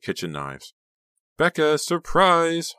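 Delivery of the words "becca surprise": high, loud, slow gleeful call. A narrator's reading. Honey gleefully greeting Becca with a surprise. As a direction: sing it out with delight. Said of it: "Honey called gleefully".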